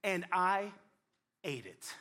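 slow, pointed blame-shifting; sulky husband passing the buck; blaming Adam. Acted. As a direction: drag it out, pinning it on her. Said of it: "Adam is playing the blame game".

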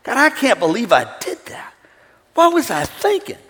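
hushed remorseful prayer; contrite prayer. Retold or imitated. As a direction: confess quietly on your knees. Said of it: "on my knees ... and I said".

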